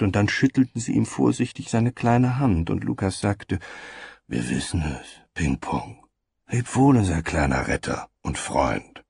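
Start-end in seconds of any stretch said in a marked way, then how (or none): 4.3-9.0 gentle. Acted. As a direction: reassure the little one gently. Lukas comforts weeping child.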